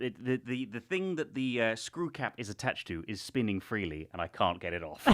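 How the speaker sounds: straining at a stuck cap; talking while wrestling a lid; opening a stuck jar. Real, not acted. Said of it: "I literally can't".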